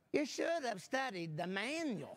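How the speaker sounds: teasing wife's jab; wife's knowing dig, half laughing; smart remark. Retold or imitated. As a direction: needle him with it, laughing. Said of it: "my wife makes this smart remark".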